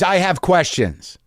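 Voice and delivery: slow, weighted I have questions; drawn-out comic button; slow pointed punchline. Shown as a demonstration. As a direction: land it slowly as the punchline. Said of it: "And I'm that guy".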